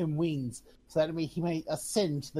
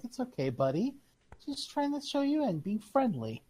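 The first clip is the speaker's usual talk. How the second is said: light, higher-pitched coaxing; gentle reassurance; 8 semitones higher than usual. Acted. Calms the frightened giant.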